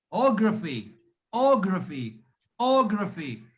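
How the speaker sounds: "ography" with a strong O, falling away after; stress on O. Shown as a demonstration. Teacher drills the stressed part, strong O in "ography". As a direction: hit the first O of "ography" and let the rest drop. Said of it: "the stress should be on ography".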